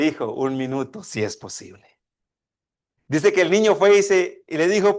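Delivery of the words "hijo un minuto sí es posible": softer, lower, with a smile; father smiling. Acted. Father answering his son with a smile, softly. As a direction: gently reassure your son. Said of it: "el padre con una sonrisa le dice".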